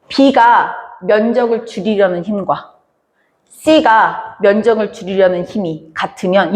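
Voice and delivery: "B가" and "C가" set apart by pauses; teacher's careful phrasing, pausing after "B가" and "C가"; model reading. Shown as a demonstration. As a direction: slowly read "B가", pause, then the phrase "면적을 줄이려는 힘". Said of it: "어떻게 읽으면 좋냐면".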